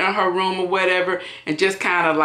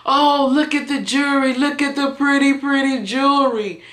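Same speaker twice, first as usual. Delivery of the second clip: higher-pitched imitation of a tipsy sister cooing; 6 semitones higher than usual. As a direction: mimic her drunk delight at the jewelry. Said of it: "she's like".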